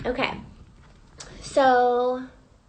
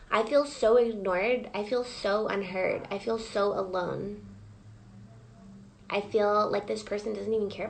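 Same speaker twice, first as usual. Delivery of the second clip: hurt feelings voiced. Shown as a demonstration. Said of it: "say all the things that you're feeling".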